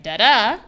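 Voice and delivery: DA da, first beat loud; stress on first da. Shown as a demonstration. Teacher writing the rhythm for chat. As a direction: punch the first da. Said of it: "I'm gonna write it here".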